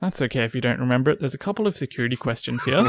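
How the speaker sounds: quick polite agent patter; reassuring phone agent; customer service voice. Pretend. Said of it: "In my work voice".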